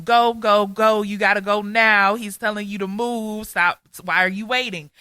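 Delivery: mimicking the podcast preacher who woke her, urgent yelling; imitating a yelling preacher. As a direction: hammer it like a fired-up preacher. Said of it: "And he's yelling".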